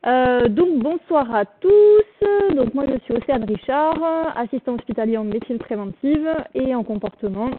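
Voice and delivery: muffled through a face mask; talking behind a mask. Real, not acted. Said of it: "mais avec le masque".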